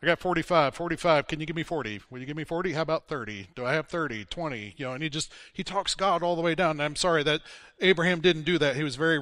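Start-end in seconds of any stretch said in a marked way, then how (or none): 0.0-4.7 auctioneer. Retold or imitated. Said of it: "Abraham becomes an auctioneer".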